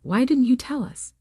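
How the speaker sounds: high, stunned question; shocked pitch rise. A narrator's reading. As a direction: blurt it out in shock. Mom finally found her voice.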